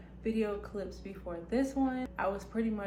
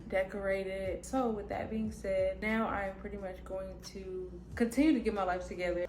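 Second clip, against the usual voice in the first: talking with retainers in, lisp; slight lisp from retainers. Real, not acted. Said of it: "I have my retainers in, so if you hear, like, a little lisp".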